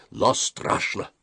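slow, half-whispered scary words; spooky hush. A narrator's reading. Boy leader tells friends how to scare, spookily. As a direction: drop into an eerie near-whisper.

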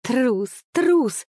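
high, babbling cry of coward. A narrator's reading. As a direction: blurt it out high and helpless. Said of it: "лепетала Кларича".

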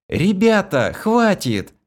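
high, loud cry to stop; shouting. A narrator's reading. Kira shouts at the fighting men to stop. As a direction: yell to break them up.

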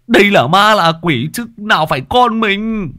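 loud, stern restraining voice; firm husband. A narrator's reading. Husband restraining his wife at the coffin, firm and loud. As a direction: hold her back with stern words. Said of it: "giằng tay chồng".

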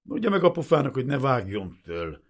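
loud, high contemptuous dressing-down; hostile, hectoring officer; bullying orders. A narrator's reading. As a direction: lay down the law aggressively. Lieutenant angrily lays down orders.

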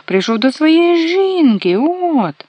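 high loud slow yell; shouting. A narrator's reading. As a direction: cry out, high and insistent. Dwarf keeps shouting. (кричить високо, голосно й повільно)

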